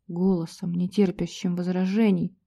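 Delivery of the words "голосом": usual speaking voice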